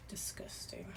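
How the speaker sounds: hushed, repulsed aside; disgusted whisper. Real, not acted. Reader recoiling from the cards, whispered disgust. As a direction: breathe the word out in a disgusted whisper.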